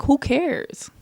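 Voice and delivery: slow, drawn-out "who cares"; slow dismissive shrug. Real, not acted. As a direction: let "who" hang, shrugging it off. Dismissive repeated tag.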